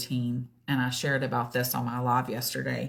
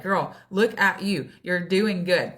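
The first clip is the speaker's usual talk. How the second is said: encouraging; 3 semitones higher, 5 dB louder than usual. Retold or imitated. Self pep talk, louder.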